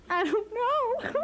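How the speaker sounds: high, slow, teary whimper; slow tearful mock sob; imitating new mom crying. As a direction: act out a weepy new mother, dragging it. New mother crying to husband.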